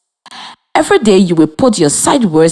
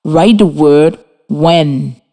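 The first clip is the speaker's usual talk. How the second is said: dictation pace; slower than usual. Shown as a demonstration. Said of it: "Number thirty-five".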